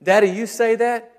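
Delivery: lightly voiced little boy asking; a hint of a toddler questioning his dad; child's voice. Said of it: "and he'll say".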